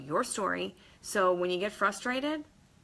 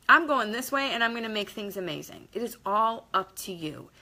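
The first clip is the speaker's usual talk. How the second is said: pumped up. Pretend. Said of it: "sorry, it's not P G thirteen anymore".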